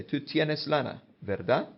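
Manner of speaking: TÚ TIENES LANA falling, then VERDAD rising; tag question. Shown as a demonstration. Teacher showing a Spanish tag question, rising VERDAD. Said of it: "And we'd say".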